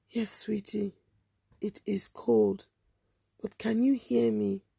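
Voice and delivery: soft, slow reassuring; calm her gently; quiet slow reassurance; soothing. Retold or imitated. Woman soothing girl.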